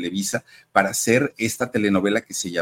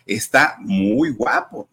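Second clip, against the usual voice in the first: Lucía Méndez; 5 semitones higher, 4 dB louder, slower than usual. Retold or imitated. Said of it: "Lucía Méndez dijo".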